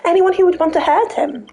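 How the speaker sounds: detective voice. Pretend. Detective role, laughing.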